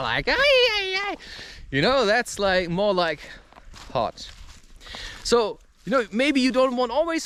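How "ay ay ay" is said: hammed-up fiery shout; fiery cry. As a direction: let out a hot-blooded ay-ay-ay. Acting out fiery señorita.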